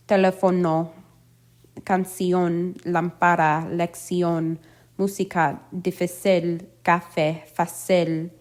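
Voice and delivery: accented vowel stressed in Teléfono, canción, lámpara, lección, música, difícil, café, fácil; stress on accented syllable. Shown as a demonstration. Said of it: "accent on the syllable that is stressed".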